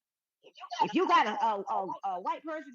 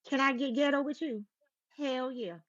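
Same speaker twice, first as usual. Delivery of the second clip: switching registers; 3 semitones lower, 4 dB louder than usual. Shown as a demonstration. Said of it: "You went through every single phase and hit it perfectly".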